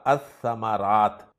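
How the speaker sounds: अस्समारात with the lam silent and the s doubled; अस्समारात: no l sound, long double s; Arabic article demo. Shown as a demonstration. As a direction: say अस्समारात as as-samārāt, l dropped into a doubled s. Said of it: "लाम को नहीं पढ़ा जाएगा".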